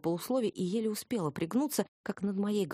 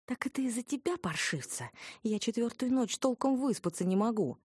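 high-pitched, sour complaint; sour questioning; 6 semitones higher than usual. A narrator's reading. Heroine confronting the culprit after sleepless nights, sourly. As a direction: ask it peevishly, pitched up. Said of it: "кисло поинтересовалась я".

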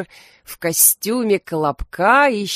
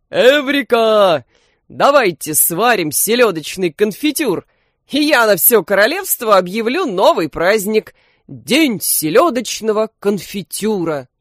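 joyful shout; 3 semitones higher, 6 dB louder than usual. A narrator's reading. King announcing a new holiday, joyful shout. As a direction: announce it like a king who just had a brilliant idea. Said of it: "король радостно закричал".

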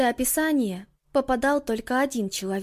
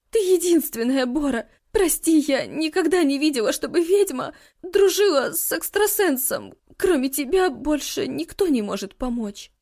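sobbing apology. Acted. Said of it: "сквозь слёзы извинилась".

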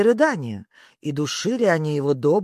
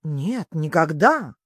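slow, drawn-out denial; hasty self-correction; slower than usual. A narrator's reading. Alice catches herself and corrects her answer, drawn-out denial. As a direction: stretch the correction out slowly. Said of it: "осеклась и поправилась".

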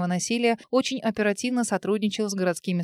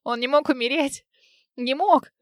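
raised, pleading cry; desperate denial; 5 semitones higher than usual. A narrator's reading. To the doctor, a raised desperate denial. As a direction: refuse to believe it, voice rising. Mother denying her baby's death.

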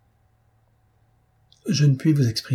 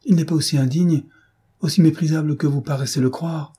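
higher-pitched, earnest protest; 4 semitones higher than usual. Acted. Maria defending her lover to Elinor, protesting. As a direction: leap to his defence. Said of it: "s'écria aussi Maria".

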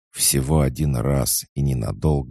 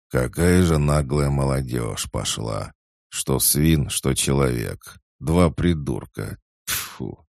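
put-on grumbling old monkey; 2 semitones higher than usual. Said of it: "бормоча на ходу".

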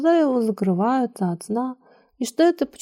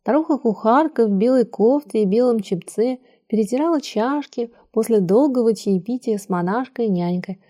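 ordinary delivery, nothing marked

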